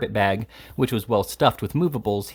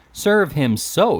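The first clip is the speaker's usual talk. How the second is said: loud, slow, hammered out; hammed-up loud cry; cried out; 6 semitones higher, 5 dB louder, much slower than usual. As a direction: bang out each word. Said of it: "cried Slurk".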